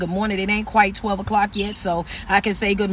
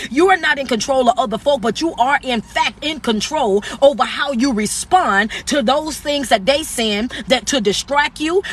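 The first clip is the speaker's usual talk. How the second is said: raised, driving preacher cadence; motivational preaching. Acted. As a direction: preach it at them with authority. Motivational speech continues.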